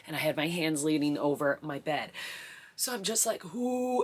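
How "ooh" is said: pushing groan. Retold or imitated. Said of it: "I feel myself open".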